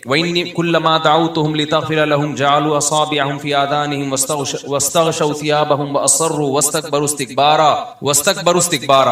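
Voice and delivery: steady, even-pitched Arabic recital; verse recited with lengthened vowels; Quran recitation. Real, not acted. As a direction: recite from memory in a flowing measured chant.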